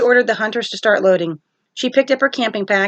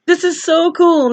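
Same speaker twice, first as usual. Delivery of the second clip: put-on excited kid; 9 semitones higher, 4 dB louder, slower than usual. Nico jumping in driver's seat.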